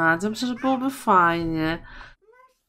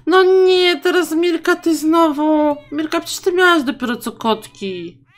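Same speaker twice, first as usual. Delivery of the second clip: high, loud mock exasperation; high exasperated no nie; exasperated outcry; 7 semitones higher, 5 dB louder than usual. Real, not acted. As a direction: groan it out at the sim. Scolding sim for another pregnancy.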